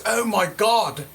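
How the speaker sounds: high, excited "Oh my God"; imitating Naomi Campbell's excited squeal; starstruck gasp. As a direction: gush like a starstruck fan. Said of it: "like this".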